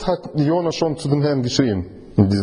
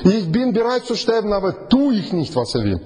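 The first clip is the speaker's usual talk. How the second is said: high, stubborn refusing voice throughout; voicing stubborn Jona; 8 semitones higher than usual. Preacher acts Jona refusing to pray to the sailors, high and stubborn. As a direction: play Jona digging his heels in, high and defiant.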